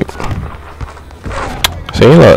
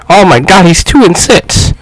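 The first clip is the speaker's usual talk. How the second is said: surprised; 9 semitones higher than usual. Real, not acted. Noticing bad stats.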